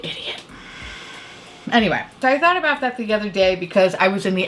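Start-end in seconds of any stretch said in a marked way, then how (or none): 0.0-0.4 fading, much softer; softer embarrassed trailing off; mortified. Real, not acted. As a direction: trail off into a near whisper.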